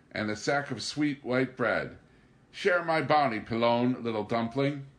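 overly eager greeting; enthusiastic. Acted. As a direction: lay the charm on thick. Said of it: "his tone was enthusiastic".

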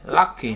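LUCK-y, stressed on LUCK; first-syllable stress. Shown as a demonstration. Teacher giving an adjective example, stress on LUCK in Lucky. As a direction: lean on LUCK in Lucky, light -y. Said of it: "âm tiết thứ nhất".

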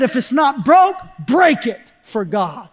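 emphatic maxim, slowing on the last words; quoted preacher. Retold or imitated. Preacher quotes another preacher's saying, emphatic. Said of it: "I heard a preacher say it".

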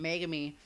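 "Megami" said MAY-guh-mee; "Megami" in a California accent; California pronunciation. Shown as a demonstration. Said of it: "That's why I have a California accent".

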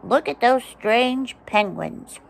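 slow, lightly voiced puzzled animal. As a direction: say it like a curious critter. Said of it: "And they say".

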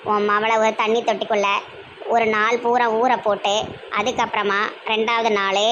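low, slow holy-person voice; self-important exorcist. Acted. Exorcist instructing the anxious mother, low slow voice. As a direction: spin out the cure slowly, pausing between phrases. Plays exorcist prescribing a cure.

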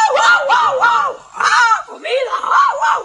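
high, hammed-up war whoops; mock tribal whoop. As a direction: whoop like cartoon warriors round the pot. Indians whooping around the pot. (aullidos exagerados de indios)

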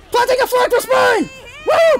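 high, whooping call; triumphant battle cry. Pretend. Gamer planting the flag, triumphant whoop. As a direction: charge cry ending in a whoop.

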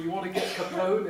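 put-on Sean Connery-style Scottish American accent; quick, punchy Scottish American cop. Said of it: "in his, uh, Scottish American accent".

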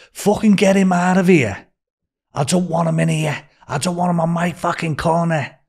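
mock-furious kitchen outburst; angry chef. Chef ordering a useless cook out, acted anger. Chef throws him out, quoted.

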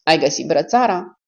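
a lightly voiced bored question; flat-hearted, mildly bored query. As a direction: ask it as if you barely care. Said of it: "Spuse cu o voce plictisită".

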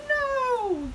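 very high, loud, long no; yelling. A narrator's reading. Crowd refusing fuzz, yelling. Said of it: "the crowd yelled".

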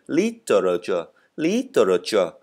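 literature said slowly and clearly, each syllable sounded out; read-along model. Shown as a demonstration. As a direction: lead the class through literature. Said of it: "đọc theo, theo mình nào".

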